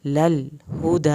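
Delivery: long final دَى in لَلْهُدَى; steady lam. Shown as a demonstration. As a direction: keep the ل of لَلْهُدَى still, ه from inside. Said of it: "یہاں پر لام نہیں ہلنا چاہیے".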